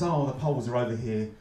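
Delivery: mock resentful local. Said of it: "it mainly sounds like this".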